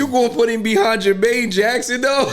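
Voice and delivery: incredulous question through laughter; laughing disbelief. Real, not acted. Co-host reacting to the ranking of a singer, laughing in disbelief. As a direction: ask it cracking up, amazed. Listener cracking up at the diss.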